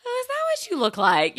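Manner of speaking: high, loud mock surprise; startled by how someone looks; taken aback. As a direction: blurt it out high in disbelief. Reacting to podcasters' looks.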